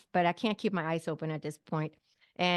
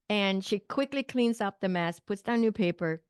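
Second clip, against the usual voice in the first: normal talking voice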